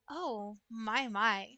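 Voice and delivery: a soft, teasing "oh, my, my". Pretend. Chat asked for it soft, so she says it hushed. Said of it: "It's not soft".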